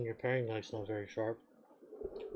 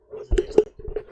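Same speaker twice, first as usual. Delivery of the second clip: whisper; 13 dB louder, slower than usual. Acted. Whispered aside to himself.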